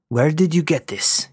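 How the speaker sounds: hushed, breathy question; whispered question. A narrator's reading. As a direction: ask it under your breath. Lieutenant questions pirate.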